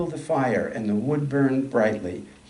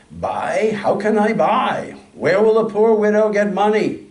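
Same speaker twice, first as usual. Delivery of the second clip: higher, louder lament of a poor widow; bitter complaint; 8 semitones higher, 6 dB louder than usual. A narrator's reading. Poor widow complains bitterly to the woodseller. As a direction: wail it out, she has no money. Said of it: "She complains bitterly".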